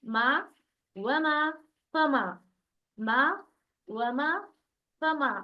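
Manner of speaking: मा, व मा, फ मा with an open, unrounded "aa", held briefly; thin, light long "a". Shown as a demonstration. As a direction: recite मा, व मा, फ मा lightly as separate drill items. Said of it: "बारीक हुरूफ के साथ हम लोग प्रैक्टिस". (मा, व मा, फ मा में अलिफ बारीक पढ़ें)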